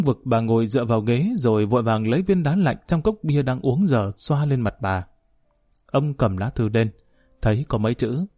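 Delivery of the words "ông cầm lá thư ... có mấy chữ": ordinary delivery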